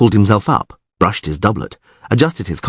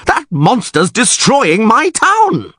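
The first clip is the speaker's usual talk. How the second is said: high, slow, anguished outcry; distraught wail; 13 semitones higher, slower than usual. A narrator's reading. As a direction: wail over your own ruined town. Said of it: "wailed Neville".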